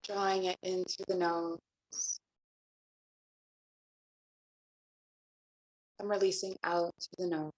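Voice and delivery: calm, even meditation voice with long pauses; guided meditation. Acted. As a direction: guide them gently into the breath, leaving space between phrases. Leads breathing meditation and invocation.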